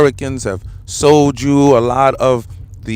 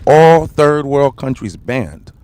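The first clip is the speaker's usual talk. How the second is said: slow loud proclamation; 5 dB louder, slower than usual. Real, not acted. Ranting about the ban.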